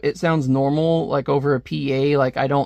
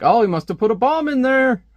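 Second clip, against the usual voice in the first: high panicky Lex; 8 semitones higher, 4 dB louder than usual. Retold or imitated. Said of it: "And Lex is like".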